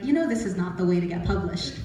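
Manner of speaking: mildly stern, acting a publisher; imitated serious tone. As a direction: play a publisher turning serious. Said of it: "he got all serious".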